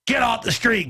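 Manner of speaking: mock yell to clear the street; imitating a cop yelling; barked order. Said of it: "They're like".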